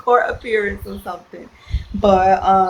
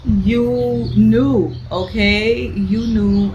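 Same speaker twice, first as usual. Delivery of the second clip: louder mock scolding; scolding the character; 3 semitones higher, 4 dB louder, much slower than usual. Reader talks back to the cheating woman, mock scolding. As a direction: wag a finger at her. Telling off the side chick.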